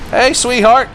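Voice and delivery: high, loud mock-sweet hello; mock sweet greeting. Player greeting a game enemy, high and mock sweet.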